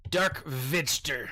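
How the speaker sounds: slow, deliberate German-style name; lightly put-on German accent; German pronunciation. Shown as a demonstration. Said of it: "the German way of saying Darth Vegetable".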